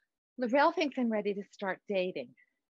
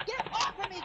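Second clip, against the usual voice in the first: frightened cry; 8 semitones higher, faster than usual. Acted. Fighting off her attacker.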